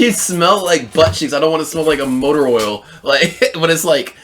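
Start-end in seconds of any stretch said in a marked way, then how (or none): 0.0-2.8 mock macho guy. Voicing a man refusing nice scents.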